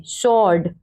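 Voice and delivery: "स्वॉर्ड" without any v sound after s; silent w. Shown as a demonstration. Teacher repeating "स्वॉर्ड" for pupils as sord, silent w. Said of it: "व का sound नहीं देंगे".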